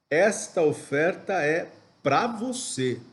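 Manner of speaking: deliberate weight on "pra você"; emphatic intonation. Shown as a demonstration. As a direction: set "pra você" apart and stress it. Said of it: "trago essas frases com uma entonação específica".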